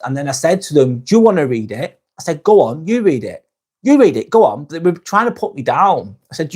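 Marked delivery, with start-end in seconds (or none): 1.0-2.0 putting someone on the spot; retold challenge, thrown back at a critic. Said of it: "I put them on the spot". 2.4-4.7 higher-pitched dare, putting them on the spot; retold challenge. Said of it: "I put them on the spot".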